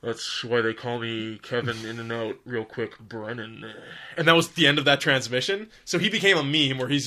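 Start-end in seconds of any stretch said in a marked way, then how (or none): 0.0-3.6 slow, booming radio cop voice. Retold or imitated. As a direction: boom it out like a tough cop on the radio. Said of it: "this booming voice come on".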